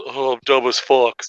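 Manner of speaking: mock zombie wrestler drone; a lightly groaned dumb zombie line. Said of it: "It goes".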